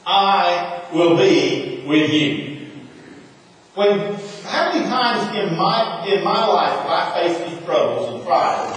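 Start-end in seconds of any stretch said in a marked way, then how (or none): 0.0-2.5 slow, gentle divine promise; God answering Gideon, slow and reassuring; calm reassurance. Acted. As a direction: say it slowly, as a steady comfort. God's reply voiced.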